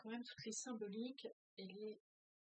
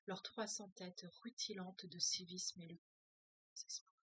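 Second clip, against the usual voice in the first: measured, steady reading-aloud voice; story reading. A narrator's reading. Teacher reading a novel aloud to her class, measured narration. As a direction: read the novel passage to the group, calm and even.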